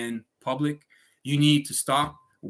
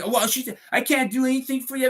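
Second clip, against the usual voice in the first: mimicking the phone agent; 9 semitones higher than usual. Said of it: "telling me".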